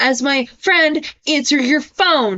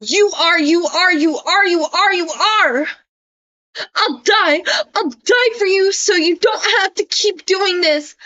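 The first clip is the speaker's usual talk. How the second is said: mock Isaac; 3 semitones higher than usual. Isaac's threatening message read aloud.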